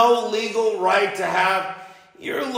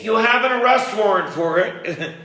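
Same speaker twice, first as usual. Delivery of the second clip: laughing through the words; 4 semitones higher than usual. Real, not acted. To his ex on the call, laughing as he accuses. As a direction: let the laugh spill into the accusation.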